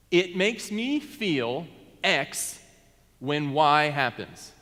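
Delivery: slow, even and measured, no judgment; a pastor modelling a calm I-statement, slowly; calm, objective statement. Shown as a demonstration. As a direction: lay it out calmly without accusing. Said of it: "Say it very calmly".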